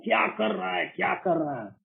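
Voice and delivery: half-shouted scolding of his own reflection; retold self-yelling. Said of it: "मैं चिल्ला रहा हूँ".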